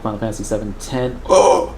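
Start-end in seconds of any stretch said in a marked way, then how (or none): 1.3-1.7 loud high Oh; shocked gasp at the news; surprised. Real, not acted. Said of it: "You don't like ten?".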